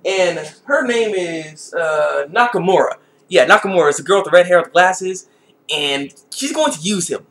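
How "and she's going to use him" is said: slow, softer sinister delivery; ominous hint. Real, not acted. Announcing the girl's scheme, slow and hushed. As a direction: draw it out like a dark secret.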